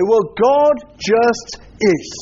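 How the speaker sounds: slow, offhand shrug of a line; dismissive. Shown as a demonstration. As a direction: brush it off slowly. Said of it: "in a dismissive way".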